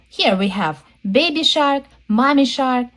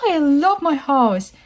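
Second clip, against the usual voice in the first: higher, delighted storybook voice; happy pink fish; 5 semitones higher than usual. Acted. Pink fish admires its new house, happy pink fish. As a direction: gush lightly like a pleased little fish. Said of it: "Grandma Shark is so happy".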